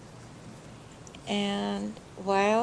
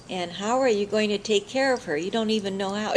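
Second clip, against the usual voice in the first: louder scolding from a worried grandmother; yelling mother; 2 semitones higher, 5 dB louder than usual. Retold or imitated. Mother yells at daughter taking the baby away, scolding. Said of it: "she's yelling at me".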